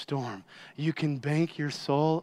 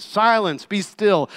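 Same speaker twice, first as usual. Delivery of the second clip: louder, higher command; stern rebuke; 4 semitones higher, 6 dB louder than usual. Acted. Jesus setting the disobedient wind straight, stern rebuke. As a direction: rebuke it like a parent correcting a child. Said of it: "Like a parent correcting their disobedient child".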